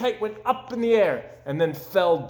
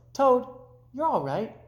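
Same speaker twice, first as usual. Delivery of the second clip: high, bright call to a friend; Frog calling; 9 semitones higher than usual. Acted. Frog calling in to Toad through the window, high.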